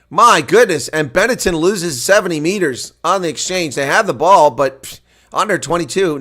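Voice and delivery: shouted, high-pitched live commentary; excited rugby commentator at full cry; thrilled play-by-play. Real, not acted. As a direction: call a breakaway at full voice.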